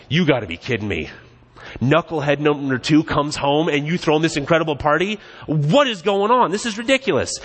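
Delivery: voicing the older son's outrage, rising to a high indignant whine; mock exasperated son. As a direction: play the fed-up older brother losing it.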